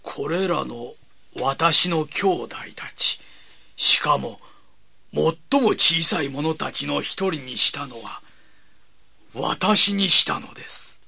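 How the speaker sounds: slow, hushed reverent reading; reading scripture. Acted. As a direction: read it slowly, in awe. Reads scripture aloud.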